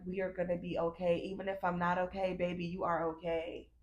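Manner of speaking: quiet, tender comfort to herself; gentle inner-child comfort; softly reassuring self. Retold or imitated. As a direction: hush and reassure, like to a baby. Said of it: "I keep saying".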